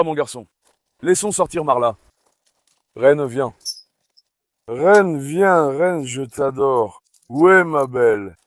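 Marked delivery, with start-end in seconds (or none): 3.0-8.4 drawn-out, doting call to a pet; affectionate calling. Real, not acted. Dog owner calls his adored queen over, affectionate calling. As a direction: coax a beloved dog over fondly.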